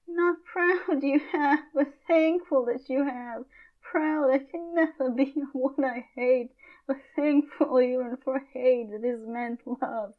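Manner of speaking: put-on gentle, careful young girl; Juliet pleading.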